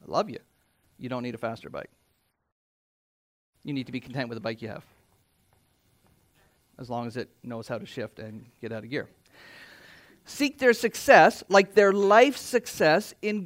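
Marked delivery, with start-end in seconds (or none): 0.0-9.1 gentle correction. Retold or imitated. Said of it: "you should very well say".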